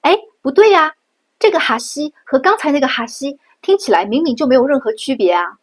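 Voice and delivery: surprised viewer protesting; mock objection. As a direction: play a confused student objecting. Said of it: "你肯定会说".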